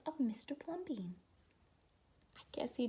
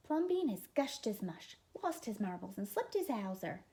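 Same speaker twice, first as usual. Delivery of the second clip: gossiping neighbors; 4 dB louder than usual. Acted.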